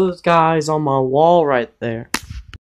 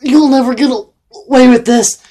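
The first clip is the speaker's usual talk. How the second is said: slow, much louder and higher defiance; defiant shout; 7 semitones higher, 7 dB louder than usual. Acted. The captured hero shouts at the clone leader, slow defiance. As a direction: spit it at the villain, slowly.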